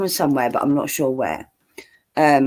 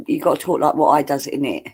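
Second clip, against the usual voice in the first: jokey common British accent, deliberately bad grammar; put-on common English talk for a laugh; mock common English accent. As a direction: send up your own common accent, words wrong on purpose. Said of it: "me taking the piss out of me".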